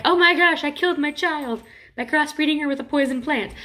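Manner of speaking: mock panic over the child; mock distraught father. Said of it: "Not like".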